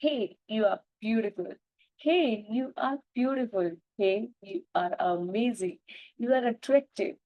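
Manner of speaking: slow, tender self-affirmation to the mirror. Acted. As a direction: speak each line slowly like a loving promise.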